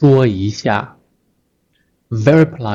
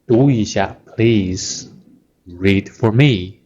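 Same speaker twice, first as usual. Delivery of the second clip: gentle teacher; 2 semitones lower, slower than usual. Shown as a demonstration. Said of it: "Very gentle teacher".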